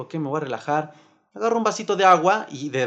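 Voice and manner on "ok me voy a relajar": quiet self-talk. Retold or imitated.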